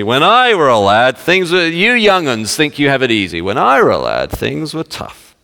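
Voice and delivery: hammed-up Yorkshire old-timer; Yorkshire accent. Old-timer telling young 'uns they have it easy, Yorkshire accent. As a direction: lecture the youngsters in mock Yorkshire. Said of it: "and it's a Yorkshire accent".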